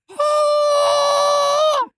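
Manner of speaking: very high loud shout; a long squeaky war yell; battle cry retry. Shown as a demonstration. Player attempting his battle cry yet again, high and loud. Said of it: "It's hard".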